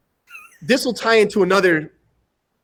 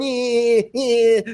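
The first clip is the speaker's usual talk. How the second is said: higher-pitched, drawn-out "eh" noises; mocking twirl noise; 4 semitones higher than usual. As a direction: mimic a show-off's silly noises. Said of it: "kinda imitating the guy".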